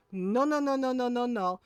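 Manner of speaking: rapid-fire string of refusals; dismissive cut-off. Retold or imitated. Tita interrupting the doctor's excuse, dismissive. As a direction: shut the excuse down, voice falling away.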